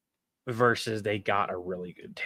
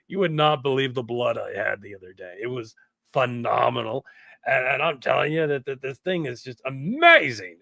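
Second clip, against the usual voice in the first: lightly voiced surfer dude; a touch of surfer-dude character voice; lowered Gary voice. Shown as a demonstration. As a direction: give it a hint of laid-back surfer. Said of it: "I can lower my voice".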